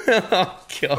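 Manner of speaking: talking through laughter and food; chewing a burrito while laughing; mouth full. Real, not acted. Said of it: "now eating Taco Bell".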